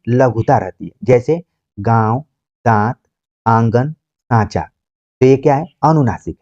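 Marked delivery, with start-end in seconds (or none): 1.8-4.6 slow, drawn-out गांव, दांत, आंगन, सांचा with the vowel sounded through nose and mouth; slow nasal demo words. Shown as a demonstration. Teacher showing students the chandrabindu sound, slow and nasal. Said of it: "नाक और मुंह से होता है".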